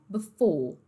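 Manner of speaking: "before" ending in closed oh; British dropped R. Shown as a demonstration. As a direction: let the R of "before" vanish. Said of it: "no britânico".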